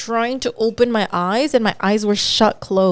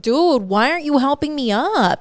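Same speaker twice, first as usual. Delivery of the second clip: mock exasperated yell, pitched up, no real volume; higher, imitated pleading yell; retold yell; 5 semitones higher than usual. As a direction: complain as if calling for help. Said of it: "And me just yelling".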